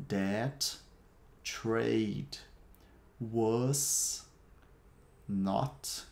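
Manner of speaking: slow, one word at a time with long pauses. Shown as a demonstration. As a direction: space each word out for repeating. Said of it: "Repete aí, depois que eu falo a palavra".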